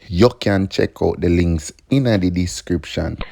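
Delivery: put-on light Jamaican accent. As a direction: say it with a Jamaican lilt. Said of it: "in my Jamaican accent".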